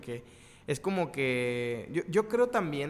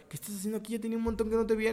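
happy surprise; 6 semitones higher, much faster than usual. Retold or imitated. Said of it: "Es de".

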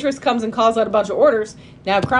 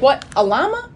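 surprised Yzma; 6 semitones higher than usual. Retold or imitated. Yzma surprised about llama.

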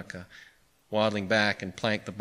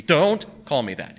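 higher, louder, drawn-out protest; yelp; 5 semitones higher, 5 dB louder, slower than usual. A narrator's reading. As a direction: yelp as if stung by the name. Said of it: "he yelped".

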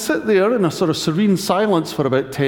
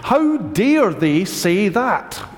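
mock indignation; much slower than usual. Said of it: "Be offended at the person who told you".

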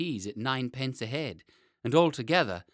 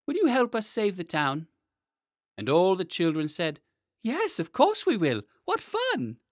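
put-on excited children; 6 semitones higher, 4 dB louder than usual. Children agree to help.

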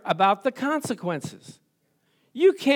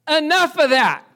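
stern refusal; 6 semitones higher, 5 dB louder than usual. Retold or imitated. Lord's stern refusal voiced.

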